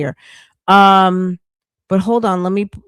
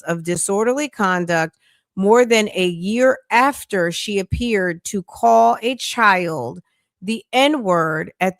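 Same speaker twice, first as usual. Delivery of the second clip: article read-aloud. Real, not acted. Reading the trial story to viewers, deliberate article read-aloud.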